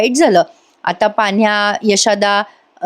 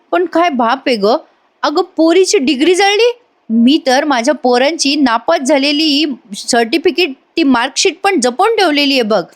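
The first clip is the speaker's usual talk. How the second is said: higher-pitched mock disbelief; acted indignant dismay; 5 semitones higher than usual. Father-in-law compares his own saved marksheets, retold with indignant dismay. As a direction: imitate an appalled elder.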